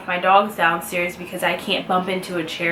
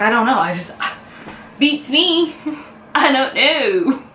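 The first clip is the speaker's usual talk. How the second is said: mock tearful; 5 semitones higher than usual. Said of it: "asks me why I'm crying".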